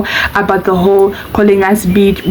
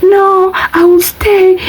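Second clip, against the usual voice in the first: crying plea; 10 semitones higher, much slower than usual. Retold or imitated. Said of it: "she's now crying, you know, she's hysterical".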